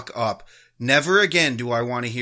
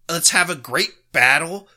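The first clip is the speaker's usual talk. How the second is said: quoting it back with an incredulous rise, louder; mocking disbelief; 5 semitones higher, 5 dB louder than usual. Host throwing the ref's phrase back, mocking. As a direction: scoff at the words as you repeat them. Mocking the referee's quoted line.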